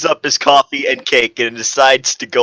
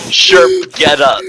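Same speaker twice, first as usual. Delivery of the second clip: calling out; 5 dB louder, slower than usual. Acted. Crush telling fallen character to get up, calling. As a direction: call him to stand.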